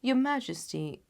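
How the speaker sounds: casual and unhurried; a hint of a breezy Holmes; lightly voiced Holmes. Holmes plans with the king.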